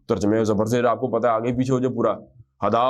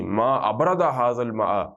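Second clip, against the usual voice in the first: slow model reading; slower than usual. Shown as a demonstration. Teacher modelling the Arabic phrase for students, slow and clear. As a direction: read ما ابرد ھذا الماء slowly, word by word. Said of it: "وہ expression اب آپ کو سکھا رہے ہیں".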